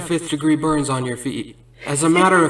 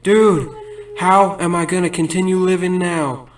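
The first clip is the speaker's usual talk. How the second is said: mock angry outburst; 3 semitones higher than usual. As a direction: play the wronged victim, half-joking outrage. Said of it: "he gets all mad".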